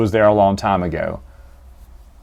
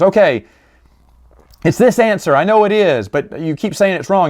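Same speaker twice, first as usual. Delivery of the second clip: higher, pleading insistence; nervous warrior; 5 semitones higher than usual. Retold or imitated. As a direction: insist against the odds.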